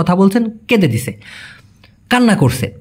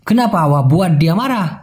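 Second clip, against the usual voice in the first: very slow, each Malay word spaced out; slow clear Malay; much slower than usual. Shown as a demonstration. Teacher to Bengali learners, very slow careful Malay. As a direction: spell the phrase out by ear for learners. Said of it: "তাকে রাগান্বিত".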